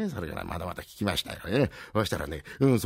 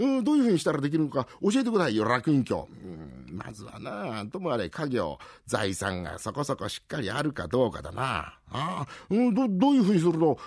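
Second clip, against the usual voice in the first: eager nosy townsman; 3 semitones higher than usual. Acted. Rakugo, nosy townsman asks.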